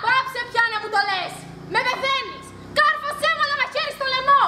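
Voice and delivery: anguished outburst. Acted. Sister begging her to stop.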